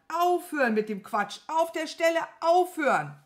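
loud, rising exasperated order; exasperated shouting. A narrator's reading. Wizard fed up with his servant's nonsense, shouting. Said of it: "rief der große Zauberer".

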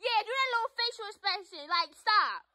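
high, heated scolding; indignant telling-off; angry taunting. Real, not acted. Quarrel with sister.

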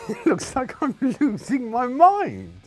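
high, loud and slow, as if unhinged; mock-manic repeat. Shown as a demonstration. Comedian repeating his DVD verdict, mock-manic high squeal. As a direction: squeal it like you've lost it.

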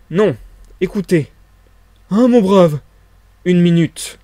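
energetic, insistent bursts; vibrant with energy. A narrator's reading. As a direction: urgently stop someone from leaving. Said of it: "fit la voix vibrante d'énergie".

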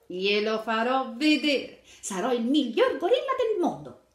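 put-on young Tarzan making a proud promise; determined exclamation. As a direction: vow it proudly like a boy who will prove himself. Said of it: "esclamò Tarzan".

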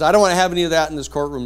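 loud, fast scolding judge; mock angry judge. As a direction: rattle it off like an irritated judge. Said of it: "starts pounding his gavel".

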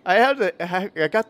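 laughing through the words. Real, not acted. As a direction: giggle as you start. Laughs about hiccups.

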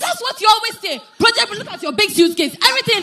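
scolding shout, pitch up; shouting wife. Acted. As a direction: snap at him angrily. Wife scolding husband in quarrel.

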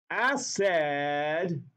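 "Acid" stretched out, second syllable said like "said"; ACID rhymed with red. Shown as a demonstration. Chemistry teacher making a memory rhyme for students, "Acid" rhymed with red. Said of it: "if you say it like that".

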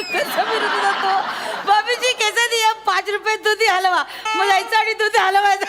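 laughing fit. Acted. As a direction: retell a joke while giggling helplessly. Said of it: "तुला पुन्हा हसायला येतंय?".

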